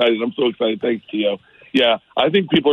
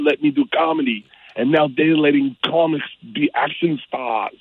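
put-on loose Austrian accent sliding toward Mexican; Arnold Schwarzenegger accent. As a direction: do a rough Arnold impression. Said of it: "your imitations started out Austrian and then went Mexican".

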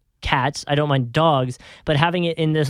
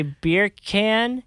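Jamaican accent; 6 semitones higher than usual. Shown as a demonstration. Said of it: "in Jamaican".

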